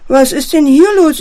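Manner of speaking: laut und höher, empört; empörte Frage in den Raum; entrüstet. Acted. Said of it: "entrüstet sich die Leiterin". (die Leiterin entdeckt empört das Chaos)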